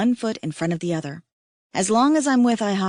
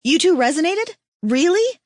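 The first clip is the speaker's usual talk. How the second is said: high, loud squeal of disbelief; shocked delight; 10 semitones higher, 5 dB louder than usual. Acted. Liz hearing her friends became mates, high surprised squeal. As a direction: gasp it out, thrilled and stunned. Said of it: "Liz cries".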